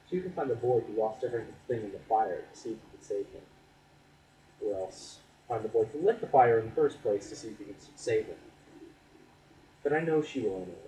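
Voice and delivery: spoken-word delivery, lifting key phrases; earnest spoken-word poem; poetry recitation. Acted. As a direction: perform the poem with deliberate pauses.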